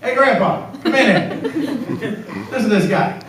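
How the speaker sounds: high, loud, laughing call; excited grandkid. Retold or imitated. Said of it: "his grandkids are going".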